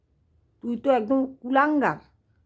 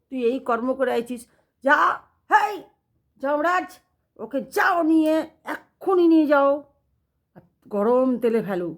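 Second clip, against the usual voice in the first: god's command; 3 semitones higher than usual. Retold or imitated. God orders Yamraj.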